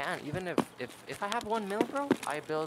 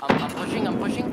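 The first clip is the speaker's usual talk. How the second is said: excited callout; 7 semitones higher, 6 dB louder than usual. Real, not acted. Calling out push in fight.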